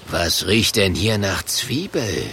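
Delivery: low, suspicious sniffing growl; gruff monster voice. Acted. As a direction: sniff it out like a brute.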